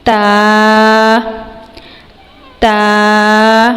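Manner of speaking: تا with the tongue tip on the edge of the upper teeth; tajweed letter demo. Shown as a demonstration. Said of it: "زبان کی نوک اور اوپر والے دانتوں". (تا زبان کی نوک سے)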